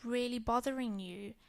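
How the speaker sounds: put-on soft and gentle, soothing a child. Mother soothing upset daughter before school, softly gentle. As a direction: ease her upset with a soft voice. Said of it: "I just gently said".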